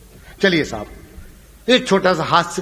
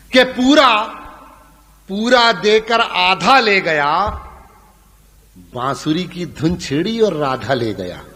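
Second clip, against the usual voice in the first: slow, louder opening verse; poem recitation; 3 dB louder than usual. Acted. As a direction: declaim the couplet to the crowd.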